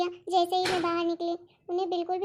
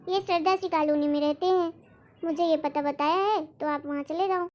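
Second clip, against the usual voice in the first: put-on a lightly lower old priest voice; a gentle priest telling the daughter where her parents went; 4 semitones lower than usual. Priest passes on the address.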